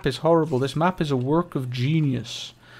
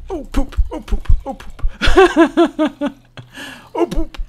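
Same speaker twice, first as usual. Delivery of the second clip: high, loud panicked yelps of "oh poop"; yelping in alarm; 11 semitones higher, 9 dB louder, slower than usual. Real, not acted. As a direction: blurt it out again and again, rattled. Spider startles him, repeated yelps.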